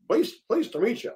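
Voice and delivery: high-pitched attempt at an American accent; bad American accent. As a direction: badly fake an American greeting. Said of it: "I can't do an American accent".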